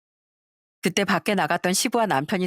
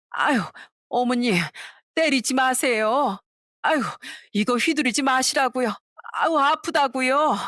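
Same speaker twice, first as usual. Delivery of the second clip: 맞으며 비명 섞인 하소연; 6 semitones higher than usual. Acted.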